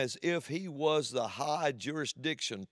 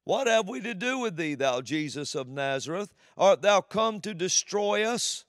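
higher, louder cry of a demon; 5 semitones higher, 3 dB louder than usual. Acted. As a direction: plead like a frightened demon. Preacher voices demon.

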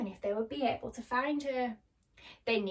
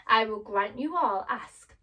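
lightly voiced wizard, louder; hint of a booming wizard granting a wish; commanding wizard; 7 dB louder than usual. Wizard answers the friends' request, commanding.

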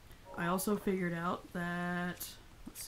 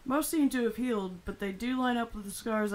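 put-on old man voice; 4 semitones higher than usual. Voicing Robbie again.

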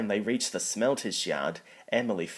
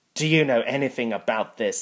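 loud, stern questioning; 3 semitones higher, 6 dB louder than usual. Acted. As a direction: demand an answer sternly. Stern boss questions culprits.

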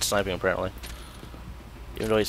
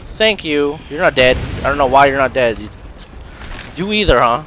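loud, raised, exasperated voice; angry; 4 semitones higher, 7 dB louder than usual. Real, not acted. Gamer to enemies still not dead, loud anger. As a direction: snap loudly at enemies that will not fall. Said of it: "I'm playing angry".

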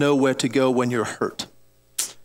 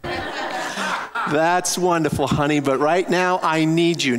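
laughing; 3 semitones higher, slower than usual. Retold or imitated. Answering wife while injured.

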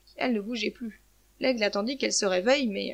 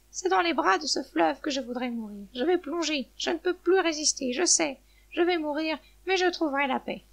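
slightly higher-pitched character thinking aloud; resigned resolve, lifted a little from narration; despairing hen; 5 semitones higher than usual. Acted. Hen decides to plunge into the river, despairing. Voices the hen's despairing thoughts.

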